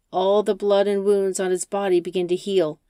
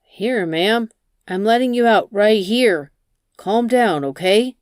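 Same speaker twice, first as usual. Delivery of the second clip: scared pleading; 3 semitones higher, 6 dB louder than usual. Acted. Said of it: "He starts to get scared".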